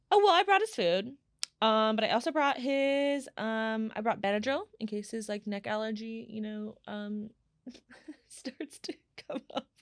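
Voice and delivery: high, mock-weepy listing, loud then fading; retold tearful fretting. Dog owner listing what she packed to the trainer, retold as tearful. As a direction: imitate yourself getting upset over the dog's bag.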